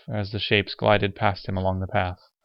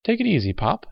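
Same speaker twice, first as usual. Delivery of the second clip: put-on easygoing, higher-pitched young soldier; good-natured; 11 semitones higher than usual. Young soldier calms a ranting old man, good-natured. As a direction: lightly soothe him, good-natured. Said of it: "a young soldier said good-naturedly".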